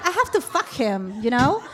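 drawn-out slow English through laughter; laughing English. Retold or imitated. Telling friends her plan, slowly laughing in English. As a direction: stretch it out, laughing at herself. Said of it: "y después dije".

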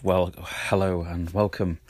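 husky, hoarse greeting from a cold. Real, not acted. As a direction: greet them through a husky throat. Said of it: "Sorry if I have a husky voice".

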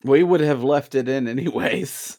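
sarcastic. Acted. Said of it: "If you can't hear the sarcasm in that".

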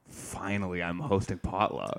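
imagined excited comic. Retold or imitated. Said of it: "Your immediate thought is like".

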